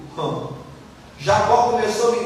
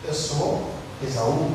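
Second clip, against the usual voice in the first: quiet lying son; 7 semitones lower, 6 dB quieter, slower than usual. Retold or imitated. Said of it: "ele diz".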